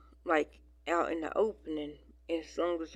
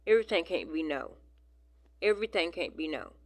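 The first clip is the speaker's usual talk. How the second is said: exasperated; 5 dB louder, faster than usual. Retold or imitated. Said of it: "it's like".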